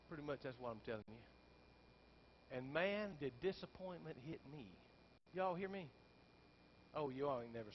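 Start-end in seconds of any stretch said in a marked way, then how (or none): 0.1-2.6 low, soft, slow flat banker voice; blunt banker. Retold or imitated. Banker tells pastor he is short, low and soft. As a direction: drop it quietly like bad news.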